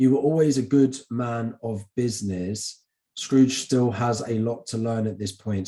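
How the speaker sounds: normal talking voice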